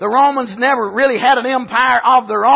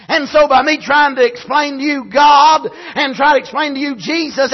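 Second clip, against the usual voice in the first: fiery preaching; 3 semitones higher than usual. Acted. Preacher to his congregation, full-force preaching. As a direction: preach it out to the church.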